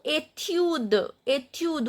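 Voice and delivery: "étude" as "ay-tyood", d sounded; silent final E. Shown as a demonstration. Teacher drills the rule for students, "étude" ending on d. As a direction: drop the last e of "étude" but release the d. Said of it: "we skip this pronunciation of E".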